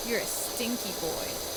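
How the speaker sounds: slow teasing put-on voice; playful mock scold. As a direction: scold it like a naughty child.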